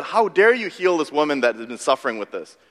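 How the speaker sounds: mildly acted indignation, pitch rising; indignant. Synagogue rulers rebuking Jesus for Sabbath healing, indignant. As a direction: scold like an affronted rule-keeper. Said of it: "they would be indignant".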